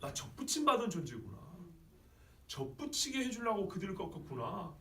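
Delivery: softly acted, humbled realization; dawning realization. Preacher voicing a grafted-in believer, dawning realization. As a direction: let it sink in gently, phrase by phrase. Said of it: "뭔가 깨달음 같이 들리세요".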